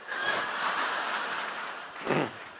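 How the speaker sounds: laughter. Real, not acted. Audience reacts.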